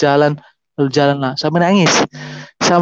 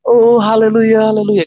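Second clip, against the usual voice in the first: mock wailing cry; 6 semitones higher, 3 dB louder than usual. Worshippers crying hallelujah in prayer, mock wailing cry. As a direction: imitate worshippers crying out, slightly louder. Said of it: "teriak-teriak".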